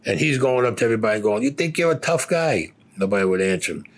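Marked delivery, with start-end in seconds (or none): 1.4-2.7 high, challenging sneer at the recruit; mock drill captain taunt. Drill captain taunting lined-up recruits, high mocking challenge. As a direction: needle him like a drill instructor.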